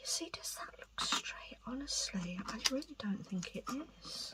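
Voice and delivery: quiet, soft, hushed whisper under the breath. Talking to the listener while straightening things, whispering. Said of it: "I don't know why I'm whispering".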